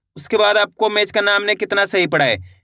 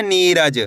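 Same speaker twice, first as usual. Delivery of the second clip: नीरज with नी stretched; teacher's demonstration of a long नी in नीरज; drawn-out first syllable; 2 semitones lower, much slower than usual. Shown as a demonstration. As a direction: hold नी in नीरज, then let it fall. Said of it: "नी को खींचना है यहाँ पे".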